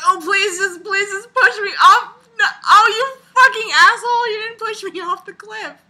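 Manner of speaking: high, loud, laughing plea to be pushed; hammed-up cry building to a curse; mock begging audience. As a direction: whine it like a desperate fan on a cliff. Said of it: "they're like".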